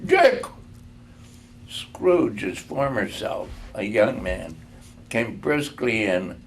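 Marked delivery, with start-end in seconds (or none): 0.1-0.4 jovial rich voice. A narrator's reading. Old Fezziwig calls his apprentices with a laughing jovial shout. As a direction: boom out a fat, jolly greeting. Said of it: "comfortable, oily, rich, fat, jovial voice".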